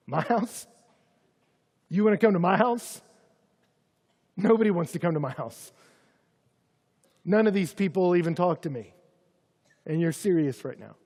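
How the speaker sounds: rising, incredulous questions; can't believe he'd come to his house; astonished disbelief. Acted. Zacchaeus astonished at Jesus' invitation.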